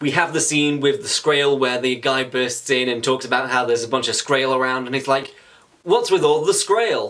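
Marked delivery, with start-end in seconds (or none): 5.8-7.1 delivered like a stand-up comedy bit. Recapping a scene where a guy bursts in, quoting him in Jerry Seinfeld-style delivery. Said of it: "I don't know why I said it like that. He's not... He's not Jerry Seinfeld".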